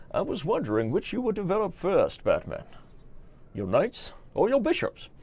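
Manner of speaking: high, lilting theatrical villain; Bane. Acted. Villain taunting Batman over chess development, high theatrical lilt. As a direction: toy with your rival in a singsong villain voice. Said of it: "any word on the Bane teaches".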